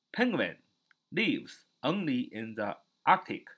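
slow, word-by-word English reading; slow model sentence. Shown as a demonstration. Teacher models an example sentence in English, slow and spaced. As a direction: read it out slowly for learners to copy. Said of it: "你要说".

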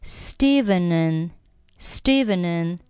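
"Stevenen" run together as one word; slow linked "Stevenen", no gap before the n; linked pronunciation. Shown as a demonstration. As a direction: slowly link and into "Stevenen" as a bare n. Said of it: "连读成了".

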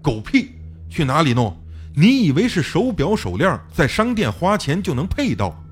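a touch of scornful fury, rising at the end; angry scolding. Acted. Fang Gang scolding the narrator with contempt, angrily. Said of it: "方刚怒骂".

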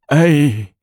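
high, drawn-out obedient answer; tearful assent. A narrator's reading. Weeping minister accepts the empress's reward, tearful assent. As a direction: answer up, still weepy.

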